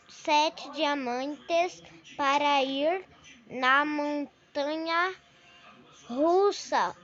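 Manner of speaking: slow, careful sign reading; slow reading aloud. Real, not acted. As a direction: spell out each word slowly.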